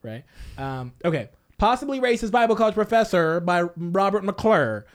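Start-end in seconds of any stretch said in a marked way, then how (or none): 1.6-4.8 announcer voice. Acted. Formal title announcement over music.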